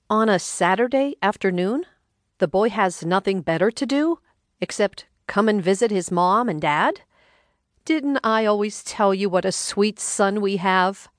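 a hint of a sarcastic older mother; lightly voiced wife. Narrator voices Rhonda.

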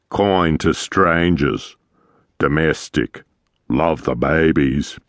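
a hint of a weathered seaman telling tales; gruff old captain. Walrus captain tells of roans.

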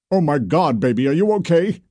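alarmed grandpa checking on his granddaughter; worried grandfather. Acted. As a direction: rush to her, frightened for her. Grandfather rushing to hurt granddaughter.

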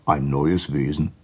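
slowing, mildly shocked question; a touch of alarm, drawn out; understated fishy dismay; startled fish. Acted. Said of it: "sagte der Fisch erschrocken".

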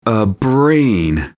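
"brain" stretched out and falling, set apart; repeated for effect. A narrator's reading. Narrator repeats it after a pause, stretched emphasis on "brain". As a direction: land slowly on "brain" for emphasis. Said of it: "I paused and then said it again".

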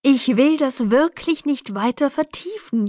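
high, pleading moan; pained whine.

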